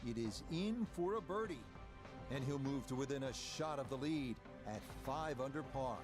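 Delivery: rising excited call as the putt drops; excited golf call. Real, not acted. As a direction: lift the voice as the birdie drops.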